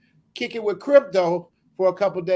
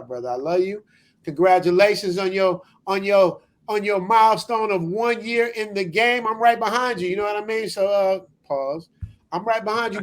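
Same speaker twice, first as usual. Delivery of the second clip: put-on nasal voice; hyper nasal voice. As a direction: talk it through the nose. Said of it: "let me do nasal Matt".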